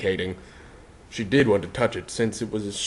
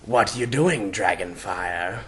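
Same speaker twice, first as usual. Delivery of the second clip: gruff sing-song; slower than usual. Acted. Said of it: "a gruff sing-song voice chimed".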